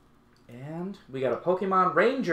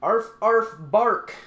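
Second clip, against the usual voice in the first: lightly voiced dog barks, higher and louder; playful dog bark; 5 semitones higher, 6 dB louder, much slower than usual. Unboxer voicing the dog on a card, playful barking. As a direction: bark the words like a pretend dog.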